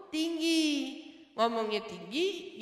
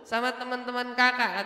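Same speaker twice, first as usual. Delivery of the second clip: embarrassed complaint; 5 dB louder than usual. Retold or imitated. Child telling off father over his loud talk, embarrassed complaint. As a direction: plead as the embarrassed eldest child. Anak menegur bapaknya.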